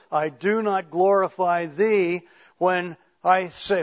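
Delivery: emphatic, insistent recitation; preaching a prayer. Acted. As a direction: drive each confession home to the congregation.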